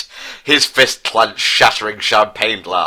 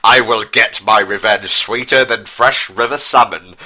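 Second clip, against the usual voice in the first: mild declaration. Acted. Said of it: "Prince Harry declared to world".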